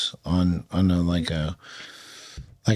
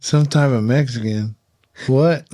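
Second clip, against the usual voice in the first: "Some type of Mexican?" echoed back in disbelief, "What?" higher and louder; incredulous; 4 semitones higher, 3 dB louder than usual. Retold or imitated. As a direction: throw the words back, baffled. Speaker repeating the question in disbelief.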